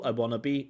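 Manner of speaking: "I wanna be" run together smoothly; connected speech. Shown as a demonstration. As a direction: blend "wanna be" into one flow. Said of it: "nice connected speech".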